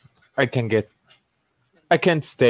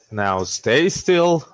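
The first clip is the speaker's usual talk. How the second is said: slow, higher-pitched order to an animal; firm coaxing command; 5 semitones higher, much slower than usual. Acted. Player talking to the muzzled pet, slow coaxing command. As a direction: draw it out, pitch lifting.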